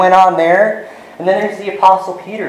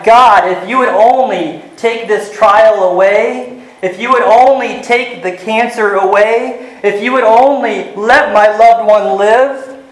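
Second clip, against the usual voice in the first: raised, pleading bargain with God; a believer's mock desperate vow; imitated pleading prayer; 5 semitones higher than usual. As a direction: beg God to take the trial away.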